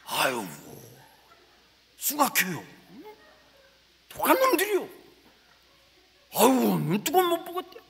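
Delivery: animated Chungcheong country storyteller, rising to a laughing yelp; 충청도 사투리로 호들갑스럽게; Chungcheong dialect. Retold or imitated. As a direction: tell it like a shaken Chungcheong villager. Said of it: "내가 충청도 말로 설교를".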